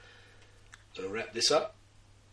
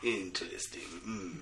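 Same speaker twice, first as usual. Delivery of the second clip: fake sexy man voice; 2 semitones lower, much slower than usual. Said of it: "your fake sexy man voice".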